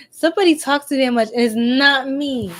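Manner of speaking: sassy, punchy denial slowing at the end. Real, not acted. Streamer denying she is the chatterbox, sassy. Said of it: "let me stop being sassy".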